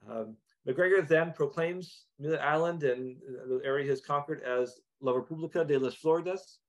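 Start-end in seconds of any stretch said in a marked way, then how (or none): 5.0-6.6 Spanish words in an American accent; anglicized Spanish pronunciation. Real, not acted. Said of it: "Please excuse my, the, my Spanish pronunciation".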